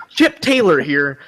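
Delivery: slow, lightly voiced anchor sign-on; a hint of a cheesy newsreader; news anchor impression. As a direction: draw out the anchor name. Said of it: "He's like".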